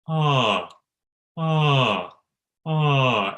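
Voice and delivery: short sighed "ah" sliding down; inhale, then release a clear, falling "ah"; clear-toned falling "ah". Shown as a demonstration. Coach demonstrating clearing up the tone, falling open "ah". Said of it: "it's about clearing up the tone".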